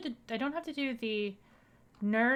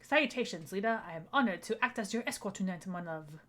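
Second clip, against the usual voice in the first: bad French accent. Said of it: "my bad French accent".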